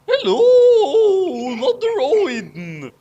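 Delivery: loud, high shout of hello; loud character greeting. Acted. Hero calls out loudly to Odin in the hall. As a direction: call out to the god on his throne.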